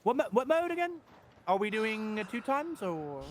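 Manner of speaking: mimicking co-host. Impersonating the co-host checking the game mode, confused mimicry. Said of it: "Do an impression of me".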